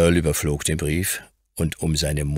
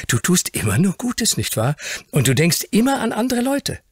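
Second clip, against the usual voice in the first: put-on high, glowing child voice; admiring young Fauntleroy; 4 dB louder than usual. A narrator's reading. Grandson praises the Earl's goodness, high admiring voice. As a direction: praise him eagerly in a high boyish voice.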